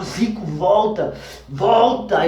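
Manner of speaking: a father's urgent shout: Zico, volta, slow and loud. Retold or imitated. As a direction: yell him back to consciousness, drawn out. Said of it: "ele gritava".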